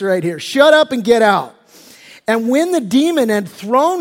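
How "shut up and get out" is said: louder, relished command; punchier rebuke. Acted. Preacher repeating Jesus's rebuke with relish, louder. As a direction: savour the rebuke. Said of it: "love me some Jesus".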